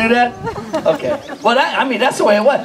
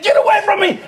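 retold yell; 11 semitones higher than usual. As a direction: shriek it as you back away. Brother yelling while fleeing.

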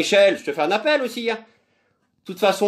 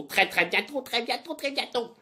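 teasing fade; 8 semitones higher, 5 dB quieter than usual. Real, not acted. Teasing repeat, fading.

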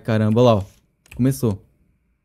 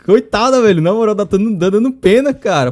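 loud pity outburst; 7 semitones higher, 9 dB louder than usual. Real, not acted. Reacting loud to the sad scene, pitying outburst. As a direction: cry out how sorry you feel, loud.

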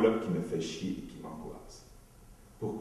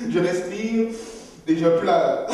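higher, louder forced crying; mock labour breathing; 10 semitones higher, 9 dB louder, slower than usual. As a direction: push the tears out like giving birth. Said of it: "comme si j'étais en train d'accoucher".

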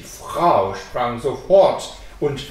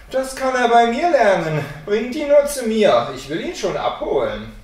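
higher, louder, breezy offer; confident sexton; 7 semitones higher, 5 dB louder than usual. A narrator's reading. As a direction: promise it lightly, falling back at the end.

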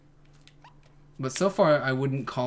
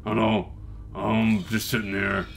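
bear voice; 2 semitones lower than usual. Pretend. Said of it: "This is my bear voice".

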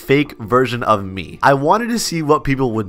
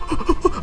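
gasp; 7 dB quieter than usual. Real, not acted. Startled during the fight.

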